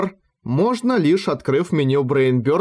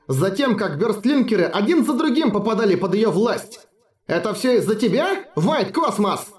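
furious shout; 7 semitones higher than usual. A narrator's reading. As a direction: shout it full of rage. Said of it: "прокричала голосом, полным ярости".

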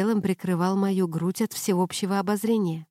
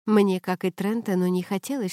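ordinary delivery

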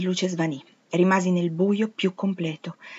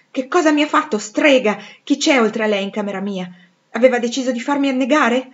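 angry outburst; 4 semitones higher, 5 dB louder than usual. Acted. Rochester soaked, berating Jane.

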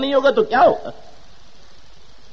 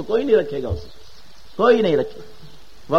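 hushed warning; 4 semitones lower, 6 dB quieter than usual. Acted. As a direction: drop to a grave hush. No one keeps your jewels. (قبر کی بات دھیمی، آہستہ آواز میں)

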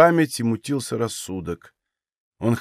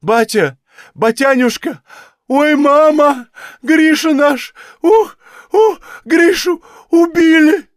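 building from a cry to a howling, much higher, louder wail; wild grief-stricken scream; 13 semitones higher, 7 dB louder, slower than usual. A narrator's reading. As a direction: break into a terrible wail of grief. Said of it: "дрожа крикнула дурным голосом".

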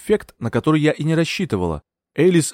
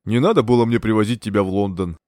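low-key, resigned male character; understated regret; sighing regret; 3 semitones lower than usual. A narrator's reading. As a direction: say it with a weary sigh. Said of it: "вздохнул он".

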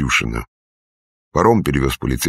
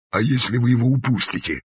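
angry whisper; 9 semitones higher than usual. A narrator's reading. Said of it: "зло прошептал исправник".

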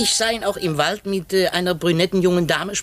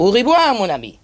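französischer Abschied; 3 semitones higher, 5 dB louder than usual. Acted. Poirot verabschiedet sich französisch.

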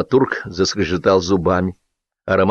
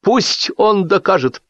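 high, drawn-out challenge; raised, slow defiance; stubborn; 12 semitones higher, slower than usual. A narrator's reading. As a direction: insist bravely, stretching the words. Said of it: "мужественно заотачился Лисипедов".

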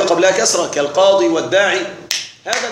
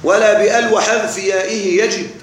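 verse recitation. Shown as a demonstration. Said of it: "قال الناظم".

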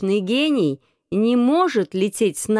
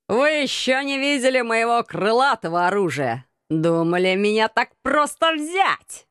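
gloating; 2 semitones higher than usual. Acted. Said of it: "Злорадно осклабился он".

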